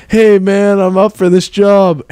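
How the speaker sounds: a spacey stoner dude. Pretend. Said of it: "they're like".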